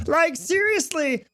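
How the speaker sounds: slow, smooth public-radio announcer; NPR voice. Shown as a demonstration. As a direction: stretch it out slowly like an NPR host. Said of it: "I sound like I could, I could fucking be on N P R".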